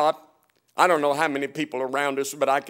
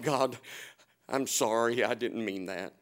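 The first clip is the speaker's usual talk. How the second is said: hushed apology; 5 semitones lower, 10 dB quieter than usual. Retold or imitated. Retold apology to God.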